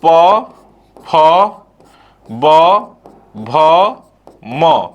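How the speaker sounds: each of प फ ब भ म said alone, first one punched; letters spaced out. Shown as a demonstration. Teacher reciting the प row to students, slow and spaced. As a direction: spell out प फ ब भ म one at a time. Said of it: "फिर क्या है?".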